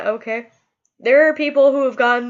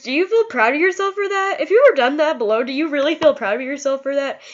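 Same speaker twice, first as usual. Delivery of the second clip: emotional outburst; 3 semitones higher, faster than usual. Real, not acted. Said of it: "I'm sorry if I got emotional there".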